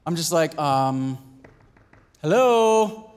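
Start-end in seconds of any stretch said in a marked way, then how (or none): 2.2-3.1 impatient calling out. Retold or imitated. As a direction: call out to the kitchen like a fussy customer. Husband demanding service at home.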